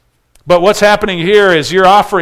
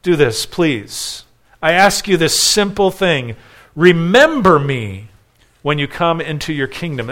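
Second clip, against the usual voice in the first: pleading. Retold or imitated. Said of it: "pleading with Jesus".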